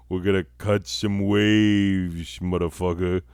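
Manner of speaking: lazy, drawled beach-bum surfer talk; mock surfer accent; surfer dude accent. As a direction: play a laid-back surfer bro, slowing down. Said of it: "these are the accents that are appropriate".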